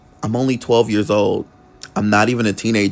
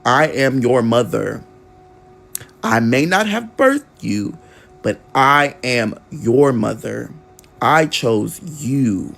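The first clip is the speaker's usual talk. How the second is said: tender mother. Retold or imitated. Mother reveals adoption, tenderly.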